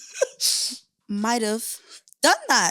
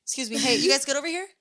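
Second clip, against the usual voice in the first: a light impression of a busy host, softer; 6 dB quieter, faster than usual. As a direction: murmur it while squeezing past guests. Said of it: "I was walking around like this".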